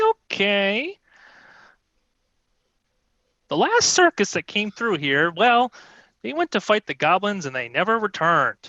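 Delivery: lightly voiced high queen; petulant kobold queen. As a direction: grumble like a tiny queen.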